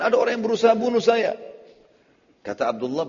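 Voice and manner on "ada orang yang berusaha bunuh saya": pitched well up, louder, as a disguised voice; a different, disguised voice. Retold or imitated. Retelling the story, a higher, louder disguised voice. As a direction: put on a raised, changed voice. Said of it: "dengan suara yang berbeda".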